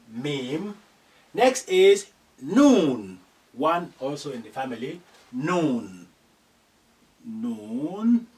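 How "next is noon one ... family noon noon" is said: noon drawn out, slow and loud; noon demo. Shown as a demonstration. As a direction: stretch noon for the students. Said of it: "teaching letter noon".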